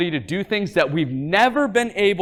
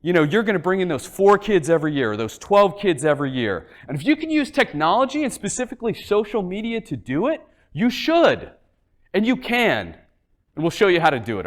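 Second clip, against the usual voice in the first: too much caffeine; 4 semitones higher than usual. Real, not acted. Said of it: "so I'm, like, wired right now".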